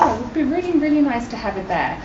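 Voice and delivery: oh, wouldn't that be lovely tone; wishful thought. Retold or imitated. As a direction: voice a hopeful little wish to yourself. Acting out her wishful thought.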